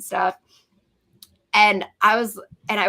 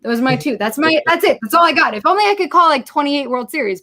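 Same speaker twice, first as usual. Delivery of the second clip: giddy boast; 4 semitones higher than usual. Retold or imitated. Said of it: "And I'm like".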